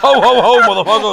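loud ho-ho laugh through words; cracking up mid-word; laughing hard. Real, not acted. Helpless laughter after a joke.

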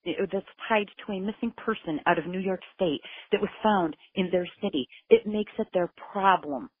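high, forceful and insistent; heated argument. Retold or imitated. Mother insisting Tennessee take the case, high heated voice.

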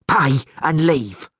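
slow, drawn-out mock yell. Pockmarked man orders the stranger out, slow mock yell. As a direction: spit each word slowly, threatening. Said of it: "yelled the pocked man".

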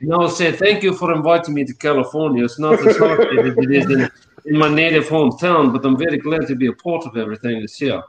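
lightly put-on Russian-English hybrid accent. A newcomer thanking his California hosts, in a hybrid Russian-English accent. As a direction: speak as a mock Russian-British visitor. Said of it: "the most amazing hybrid Russian English accent".

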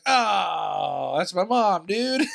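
put-on correcting the stranger who thought mom was her boyfriend, indignant shout. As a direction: yell it at her, offended.

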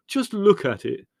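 high, slow, loud moan; drawn-out, dismayed wail. A narrator's reading. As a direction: moan it in anguish. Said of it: "moaned Leslie".

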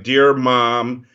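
hammed-up letter dictation, each line ending in a dull period; slow mock dictation with a flat period after each line; mock letter reading. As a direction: read a petty letter aloud, slowly, deadpan. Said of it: "It was basically like".

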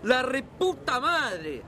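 exasperated cursing. Acted. Father learns bus leaves in minutes.

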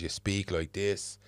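slow, careful proper diction; proper elocution. Retold or imitated. Mother teaching her son to speak properly, in slow careful elocution. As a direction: copy mum modelling the posh way to talk. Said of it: "she says".

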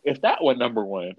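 talking through a yawn; words stretched by a yawn. Real, not acted. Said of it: "Look, I just yawned".

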